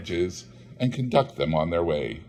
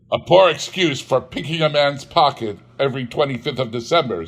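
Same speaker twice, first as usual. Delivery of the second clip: louder, bitter jab; scornful Scrooge; 4 semitones higher, 5 dB louder, faster than usual. Acted. Scrooge scorning Christmas to his clerk, bitter. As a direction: spit out the complaint.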